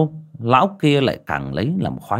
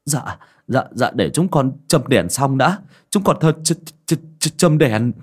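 nervous stammer; 4 semitones higher than usual. Acted. Scared servant stammering reply.

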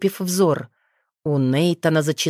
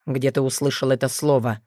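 stern; 4 semitones lower than usual. Acted. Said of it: "строго спросил Нейтан".

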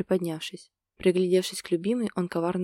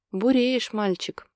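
loud, higher, mock-stern warning; menacing; 4 semitones higher, 4 dB louder, slower than usual. Yana warns Ilya off, mock-menacing. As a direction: scold him playfully. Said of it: "грозно произнесла она".

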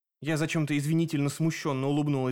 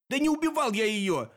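wailing cry; 7 semitones higher than usual. A narrator's reading. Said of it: "возопил Дэн".

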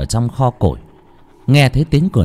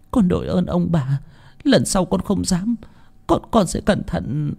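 higher, soft, timid voice; trembling gratitude; 7 semitones higher, 3 dB quieter than usual. A narrator's reading. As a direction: thank them in fear. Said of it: "tay run run rẩy rẩy". (người hầu run rẩy cảm ơn, giọng cao khẽ)

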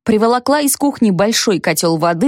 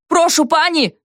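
much higher yell down the line; yelling into phone; 8 semitones higher than usual. A narrator's reading. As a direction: bellow into the receiver. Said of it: "заорал Павел в трубку".

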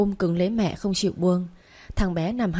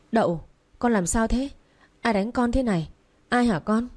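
panicked mother; 3 semitones higher than usual. Acted. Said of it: "Mai mất bình tĩnh".

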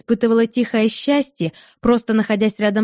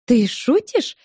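incredulous; 3 semitones higher, slower than usual. Acted. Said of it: "недоверчиво спросила Берта".

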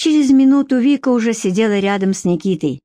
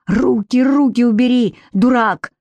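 angry, mildly raised voice; 4 semitones higher than usual. A narrator's reading. Vika to the thug grabbing her, angry. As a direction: snap at him to back off. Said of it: "сердито сказала Вика".

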